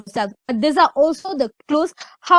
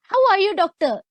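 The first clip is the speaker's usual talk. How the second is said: higher, breezy and offhand, too casual for a lecturer; casual wrong way; 6 semitones higher than usual. Shown as a demonstration. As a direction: toss it off like chatting to a friend. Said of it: "You can't say".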